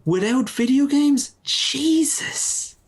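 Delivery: high, mock-distraught wail; mock sadness. Pitying a gamer's life without video games, mock sad. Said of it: "It's making me sad".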